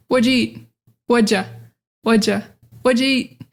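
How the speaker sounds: "What'd you" shrunk to "whudja"; reduced form. Shown as a demonstration. What learners will also hear, reduced casual form. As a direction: drop did, blend into "What'd ya". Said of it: "you're also gonna hear".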